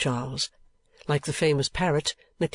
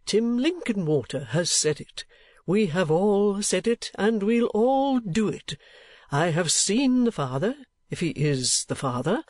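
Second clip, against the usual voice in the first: put-on indignant old gentleman, mostly higher-pitched; warm indignation; 7 semitones higher, slower than usual. A narrator's reading. Old gentleman vowing he has said it, indignant. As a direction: declare it with mounting indignation, drawing out phrase ends. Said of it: "in such a very warm state of indignation".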